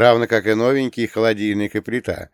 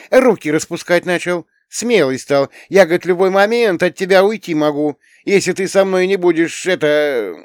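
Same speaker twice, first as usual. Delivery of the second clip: put-on high, loud indignant girl; teen girl Tanya; 8 semitones higher, 6 dB louder than usual. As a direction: voice an upset young girl complaining. Tanya's voice held. (высокий громкий голос возмущённой девочки-подростка)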